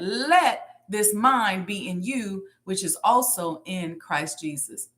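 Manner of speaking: slow verse, Let stressed. Shown as a demonstration. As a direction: recite slowly, weight on Let. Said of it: "put emphasis on the word let".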